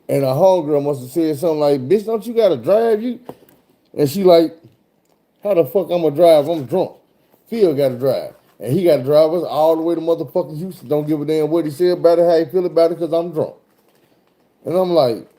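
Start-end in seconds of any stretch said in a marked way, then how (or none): 1.9-3.2 imitated homegirl. Voices the homegirl challenging her. 5.4-13.5 raised, higher mock-drunk protest; pushy retold drunken rant; loud drunk passenger. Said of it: "loud, got her feet up".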